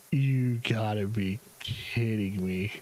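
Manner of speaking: slow, drawn-out disbelief; lightly acted, slow incredulity; retold disbelief. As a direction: stretch each word out, incredulous.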